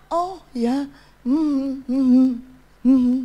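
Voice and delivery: passive agreement. Acted. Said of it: "Jadi jangan cuman".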